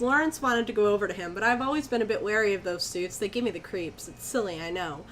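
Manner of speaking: even first-person storytelling; story narration. A narrator's reading. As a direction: read it out as an eerie anecdote. Reads the story aloud.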